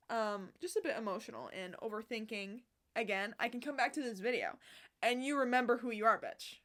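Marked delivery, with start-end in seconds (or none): 5.0-6.6 self pep talk. Real, not acted. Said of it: "I was talking to myself".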